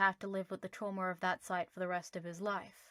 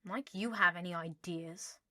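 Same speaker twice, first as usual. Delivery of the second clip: snort. Acted. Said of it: "Harry snorted".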